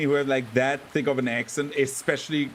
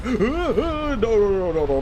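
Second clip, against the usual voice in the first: real panic; 8 semitones higher, 5 dB louder, slower than usual. Real, not acted. Monster closing in during game.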